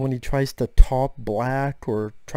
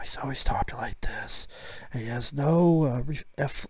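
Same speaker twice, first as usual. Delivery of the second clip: near-whisper, quiet, flat and uninflected put-on voice; 5 dB quieter than usual. Showing how the actor talks nowadays: quiet Steven Seagal voice. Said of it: "Seagal's always very quiet now".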